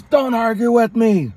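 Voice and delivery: slow, high mock bark; imitating an angry dad. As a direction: stretch it out like a stern father putting his foot down. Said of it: "slams up and he says".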